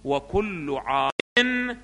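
slow reading with long drawn-out vowels; textbook recitation. Acted. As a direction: recite the text slowly, almost chanting. Re-reads the textbook phrase. (قراءة بطيئة ممدودة للمتن)

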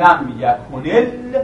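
slow "لم یکن ال-" stopped on the ل; demonstrated pronunciation. Shown as a demonstration. Teacher isolating the first lam, slow "لم یکن ال-" halted on ل. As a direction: hold the vowelless ل at the end of "لم یکن ال-". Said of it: "تلفظ میکنید".

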